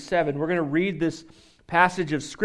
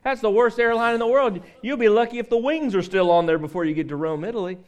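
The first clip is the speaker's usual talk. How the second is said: critical barber; 5 semitones higher than usual. Retold or imitated. Barber runs down the customer's trip with mock scorn. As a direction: pour scorn on everything, lightly acted. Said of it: "And then the barber started in".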